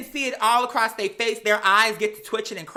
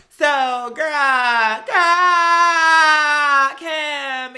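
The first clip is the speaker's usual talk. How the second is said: exasperated shout; 7 semitones higher, 9 dB louder, much slower than usual. Real, not acted. Shouting at Kim on TV, loud and pleading. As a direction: call her out, voice cracking up high.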